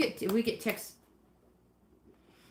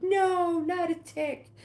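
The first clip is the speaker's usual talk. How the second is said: voicing the dog; 10 semitones higher, much slower than usual. Owner voicing her dog refusing the tick, high pretend voice. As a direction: squeak it out as the upset dog. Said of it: "She's like".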